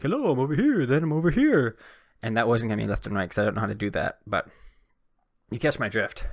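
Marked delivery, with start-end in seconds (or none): 0.0-1.8 lightly voiced, higher ASMR host; hammed-up barbershop ASMR greeting; mock ASMR voice. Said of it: "like the barbershop thing".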